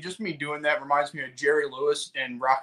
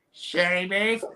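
put-on lightly Asian-accented echo of an order; mock Asian accent on a short echo; caricatured Asian accent; 3 semitones higher, slower than usual. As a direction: imitate an Asian-accented server repeating it. Accented echo in restaurant bit.

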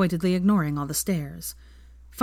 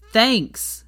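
thanks repeated louder, stretched out; 5 semitones higher, 6 dB louder than usual. A narrator's reading. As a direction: say it louder so the barman hears. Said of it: "said Harry loudly".

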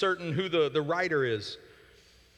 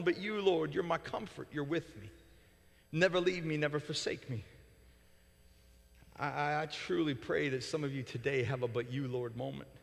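much softer, hushed and intimate; tender prayer; 4 semitones lower, 6 dB quieter than usual. Acted. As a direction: bring it down to a gentle whisper of faith.

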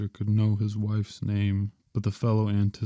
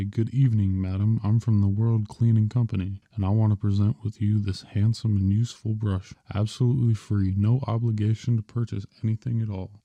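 fast sales pitch. Shown as a demonstration. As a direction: rattle off the pitch at the door. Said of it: "and then talk fast".

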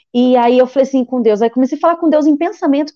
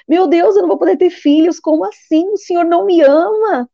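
higher-pitched retold cry of abandonment; tearful pleading; 5 semitones higher than usual. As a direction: reenact an anguished, questioning plea to God. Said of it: "comecei a chorar".

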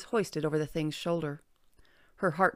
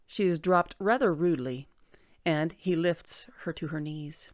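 measured, articulate audiobook read; story narration. A narrator's reading. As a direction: narrate a fantasy tale with deliberate phrasing. Reads a story aloud.

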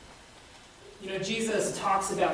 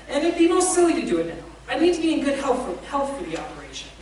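much higher, louder, nervous ghost voice; flustered evasive ghost; 6 semitones higher, 6 dB louder than usual. A narrator's reading. The ghost stalls the angel, high and nervously evasive. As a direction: squirm out of it, voice climbing high.

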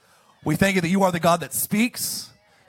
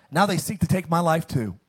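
dropping lower into defeat; low moment; 5 semitones lower than usual. Acted. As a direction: sink into the last line, despairing. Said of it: "He's having a low moment".

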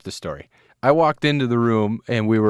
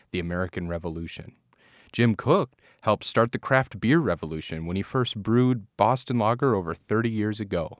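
measured podcast announcer read, spaced phrasing; scripted show intro. Acted. Host introducing the beer to listeners, announcer read. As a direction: read it out as a mock-grand introduction.

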